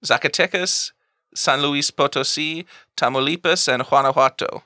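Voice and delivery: Zacatecas, Tamaulipas, Guanajuato said in careful Spanish; Spanish pronunciation. Shown as a demonstration. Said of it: "give it a shot".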